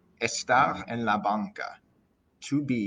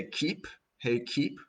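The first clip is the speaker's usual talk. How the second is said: calling the keeper; 5 semitones higher, slower than usual. Retold or imitated. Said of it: "I know we would say".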